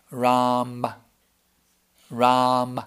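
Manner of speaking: "Ram" with a subtle final vowel; demonstrating Ram. Shown as a demonstration. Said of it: "Hear the, uh?".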